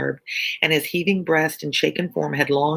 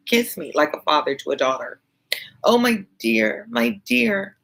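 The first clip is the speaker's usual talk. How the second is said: a lightly voiced young daughter, pleading tenderly, a bit higher; Lucie pleading; 4 semitones higher than usual. Reading Lucie's pleading speech aloud.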